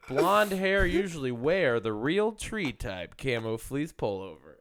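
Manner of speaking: slowly picking apart each word; drawn out and emphatic; slow, deliberate reading. Shown as a demonstration. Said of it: "I wanna break this down a bit".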